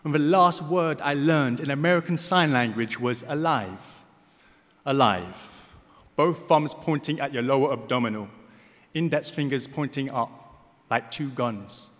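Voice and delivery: measured, emphatic poem reading; spoken-word poem, deliberately paced; poetry recitation. Acted. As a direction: recite in weighted phrases with pauses between them.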